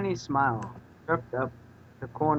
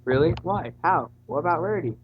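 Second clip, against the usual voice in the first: mock excitement; 4 semitones higher, 4 dB louder than usual. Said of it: "intently burst with enthusiasm".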